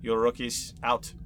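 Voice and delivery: a hint of a bossy range master; NPC voice. Instructor shooing the rookies out, lightly voiced. NPC boasting then dismissing.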